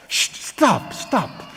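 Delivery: whispered hush; hissed shush. Acted. Kind parent whispers at firm spouse to stop, hushed. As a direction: cut them off under your breath.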